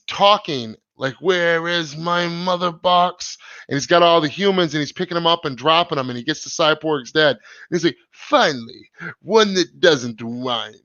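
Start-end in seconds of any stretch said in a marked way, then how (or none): 1.1-3.4 slow, lightly put-on movie villain accent; Steppenwolf accent. Streamer mocks the Justice League villain's odd accent, slow and lightly accented. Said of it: "What is that fucking accent". 8.1-10.7 slow, lightly put-on villain accent; a hint of the film's Steppenwolf, drawn out. Streamer mocks the villain's line to Cyborg's dad, slow mock accent. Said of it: "What is that fucking accent".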